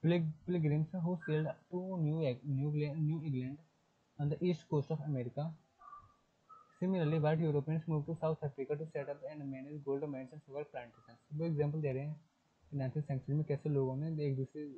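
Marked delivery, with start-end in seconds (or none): 0.0-11.2 slow textbook reading. Shown as a demonstration. Teacher reading the English passage aloud to students, slowly. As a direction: read the passage word by word, very slowly.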